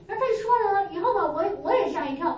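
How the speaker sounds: normal talking voice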